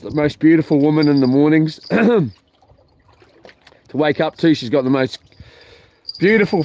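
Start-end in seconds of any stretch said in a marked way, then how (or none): none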